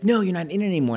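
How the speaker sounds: put-on sing-song it like a gloating child; mock kid taunt. Kids tell Seth he's out, high gloating taunt.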